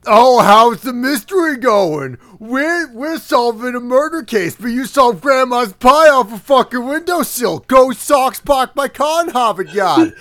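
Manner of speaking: brash Boston blue blood voice; Boston accent. Acted. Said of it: "So, so Boston Blue Blood's like".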